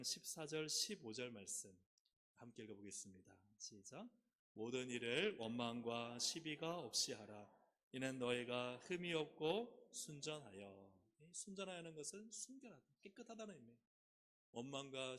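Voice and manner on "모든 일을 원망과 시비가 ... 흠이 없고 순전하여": loud, slow, measured recitation; unison scripture reading. Real, not acted. Preacher leading congregation through a Bible verse, loud slow recitation. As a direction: read it out loud and drawn out for all to follow.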